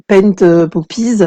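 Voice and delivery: English product name in a French accent; hesitant English with a real French accent. Real, not acted. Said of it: "excusez-moi pour mon accent".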